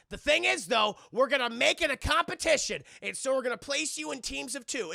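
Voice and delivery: loud, high put-on Argentinian accent; mock Argentinian villain. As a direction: boast the twist as a fake Argentinian boss. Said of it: "he's like an accent".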